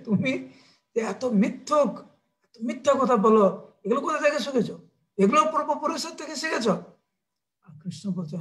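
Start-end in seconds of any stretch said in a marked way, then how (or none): 0.1-6.7 cross questions rising higher at the end; mildly heated maternal scolding; angry mother. Acted. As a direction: accuse a child of lying. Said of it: "মা যশোদা আবার রেগে গেছে".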